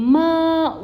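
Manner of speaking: "ma" held high and level inside the sentence; flat tone. Shown as a demonstration. Teacher explaining how to read it, flat tone. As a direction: stretch "ma" on an even high pitch. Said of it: "Being a flat tone".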